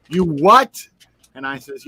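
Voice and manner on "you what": much higher, louder incredulous yelp; shocked. Retold or imitated. Friend reacting in shock to the cereal claim. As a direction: disbelief cracking up high. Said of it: "He goes".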